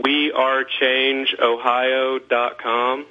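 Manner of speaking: we are change ohio dot com said very slowly, word by word; slowly dictating we are change ohio dot com; slow, spelled out. Shown as a demonstration. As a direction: read the address out slow and clear. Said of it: "give out the Ohio change again".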